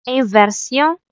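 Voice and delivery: "inversion" said the French way, en-ver-SION with nasal end; French pronunciation. Shown as a demonstration. Teacher giving the French form of the term. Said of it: "en français".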